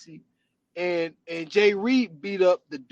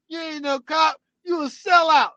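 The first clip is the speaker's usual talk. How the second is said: higher, louder jeering yell; mock taunting shout; 9 semitones higher, 5 dB louder than usual. Friend retelling the car scene, jeering shout. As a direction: hurl it after him like a heckler.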